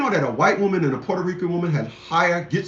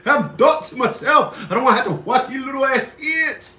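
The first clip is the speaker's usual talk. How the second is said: raised, laughing Bernie Mac-style rant; lightly voiced comic grumbling with laughs; 4 semitones higher than usual. Ranting to viewers about kids, in a light Bernie Mac imitation. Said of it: "let me go my Bernie Mac voice".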